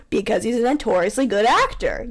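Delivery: sarcastic but a touch sincere; dry, half-believing praise; slightly sincere sarcasm. Shown as a demonstration. Friend coaching the line, slightly sincere sarcasm. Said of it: "You have to sound slightly sincere".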